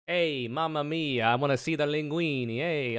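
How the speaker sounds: jokey Italian impression of a nosy guy; mock Italian accent. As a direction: put on a playful stereotype Italian voice. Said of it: "I don't know why I made him Italian".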